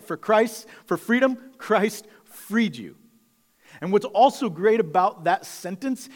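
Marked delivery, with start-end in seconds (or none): 0.0-3.0 "For Christ, for freedom" climbing higher and louder, then "Christ freed you" slow; rising proclamation. Real, not acted. Pastor drives the point home to the church, climbing and loud. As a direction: build it up like a proclamation. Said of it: "It's the whole point".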